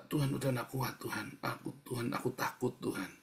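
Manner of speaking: soft demonstration of a frightened prayer; quiet plea. Shown as a demonstration. Preacher models asking God for help, quiet plea. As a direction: ask softly without complaining. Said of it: "Bukan mengeluh, bilang, minta".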